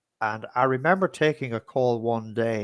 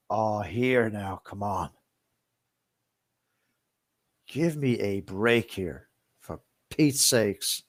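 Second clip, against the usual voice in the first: exasperated protest; 3 semitones lower, 5 dB quieter, slower than usual. Retold or imitated.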